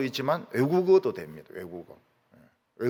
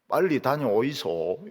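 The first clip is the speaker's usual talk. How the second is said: Gyeongsang dialect; 4 semitones lower, 3 dB quieter than usual. Retold or imitated. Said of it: "경상도 말을 씁니다".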